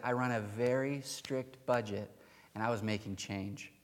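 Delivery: softly voiced mild-mannered man; gentle explanation. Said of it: "he was very gentle in his response".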